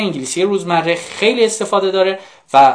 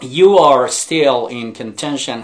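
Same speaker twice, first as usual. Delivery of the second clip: slow model reading; 2 semitones lower, much slower than usual. Shown as a demonstration. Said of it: "teacher models the phrase".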